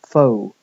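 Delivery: "pho" as a full, loud foh; stressed syllable. Shown as a demonstration. Lecturer isolating the first vowel, stressed "pho". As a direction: give "pho" a clear stressed oh. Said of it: "main stress is on the first vowel".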